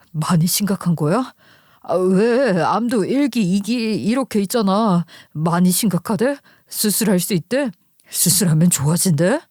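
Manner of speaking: lightly voiced husband, anxious questions; worried husband. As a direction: press for answers as a concerned husband. (살짝 연기한 걱정하는 남편)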